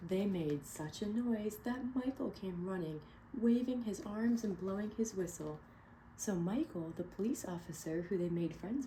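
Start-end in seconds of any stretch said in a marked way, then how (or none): 0.1-5.6 clear, expressive read-aloud narration; storybook reading. Acted. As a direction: read it to a room of kids. Reading picture book aloud.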